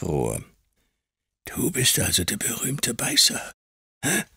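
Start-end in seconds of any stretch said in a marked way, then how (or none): 1.4-4.2 sneering taunt. A narrator's reading. Creakle taunts boy.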